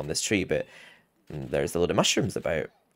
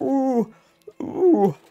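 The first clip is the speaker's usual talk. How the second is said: put-on very high, loud grumpy old man wail on "ooh". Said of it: "sounds like a grumpy old man, but when he gets close, he just lets it rip".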